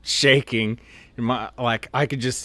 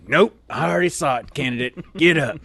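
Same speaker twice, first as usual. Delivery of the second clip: barking drill sergeant; 5 semitones higher, 3 dB louder than usual. Retold or imitated. Drill sergeant catching recruit.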